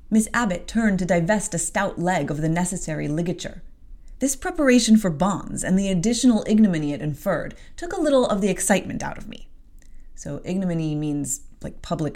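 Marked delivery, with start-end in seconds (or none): 0.1-9.5 even audiobook reading; story narration. A narrator's reading. Host reading the novel, narration. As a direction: carry the scene forward.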